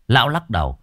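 ordinary delivery, nothing marked

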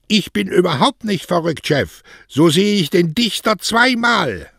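high, loud, defiant call; very high carrying shout; shouting back. Acted. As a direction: holler back to the boss from afar. Mario shouts back from his bicycle.

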